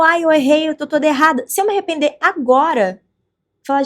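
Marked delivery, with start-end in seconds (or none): 0.0-1.5 guilty lament. Retold or imitated. Voices her own guilt.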